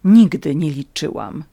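mildly bitter, firm denial. A narrator's reading. Natalia denies hoping for marriage, mildly bitter. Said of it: "przerwała z goryczą".

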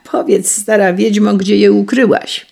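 put-on bully the old woman loudly; angry demand. Lubar threatens the countess.

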